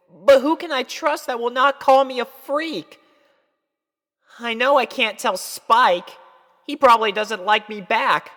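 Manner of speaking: put-on high, loud young filly, worried and pining; Sweetie Belle voice. A narrator's reading. Filly confiding her crush worries to herself, high and anxious. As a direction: pour out a filly's secret worries.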